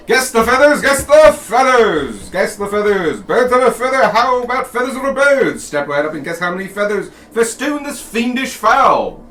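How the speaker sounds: high, loud sideshow barker call; carnival barker. Acted. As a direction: step right up, hawk the game. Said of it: "a hawker there going".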